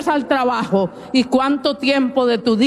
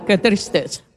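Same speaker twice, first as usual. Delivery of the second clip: mock lament; 5 semitones lower than usual. Lamenting listener's state.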